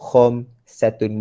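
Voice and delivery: Khamsatun drawn out with rasped kh; teacher models Khamsatun slowly; Khamsatun, slow throaty kh. Shown as a demonstration. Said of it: "Bukan khamsatun".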